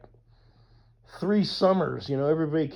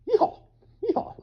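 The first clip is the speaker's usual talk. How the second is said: loud high yeehaw yell; cowboy yeehaw; 6 dB louder than usual. Pretend. After saying uncle taught him cowboy ways, loud whoop. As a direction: holler it like a cowboy.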